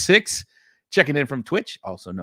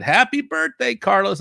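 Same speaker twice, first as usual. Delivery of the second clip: mock-cheery birthday greeting, pitched way up; chirpy birthday wish; 9 semitones higher than usual. Host imitating chat's birthday wishes to Carlos, high and chirpy. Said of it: "because people have said".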